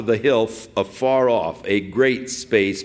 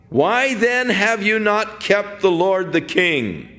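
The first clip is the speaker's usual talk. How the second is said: calling out; 8 semitones higher than usual. Retold or imitated. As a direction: call across the hills to shame the guard. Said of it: "Who are you that cries to the king".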